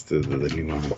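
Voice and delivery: jaw stuck out, Beavis style; underbite. Retold or imitated. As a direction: talk with the jaw pushed forward. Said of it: "Have to stick my jaw out".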